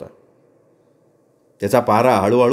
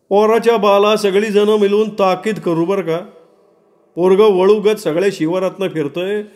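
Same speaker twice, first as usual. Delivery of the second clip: high-pitched rustic grumbling; high, aggrieved village-crowd voices; complaining villagers; 7 semitones higher than usual. Acted. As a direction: air grievances as gathered villagers, pitched high. Villagers complain about the boy.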